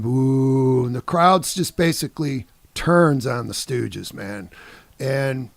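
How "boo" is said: drawn-out imitated boo; slow, mock jeer from a crowd. Angry crowd at the band, drawn-out booing. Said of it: "they start booing".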